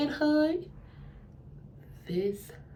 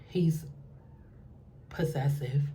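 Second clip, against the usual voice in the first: whisper; 8 semitones lower, 9 dB quieter than usual. Retold or imitated. Whispering about him beside him.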